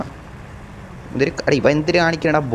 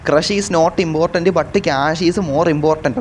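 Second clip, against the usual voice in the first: slow read-out; much slower than usual. Shown as a demonstration. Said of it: "spelling out the bus slogan".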